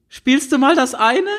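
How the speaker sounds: put-on high teen girl asking the guitarist to play. A narrator's reading. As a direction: ask sweetly like a crush.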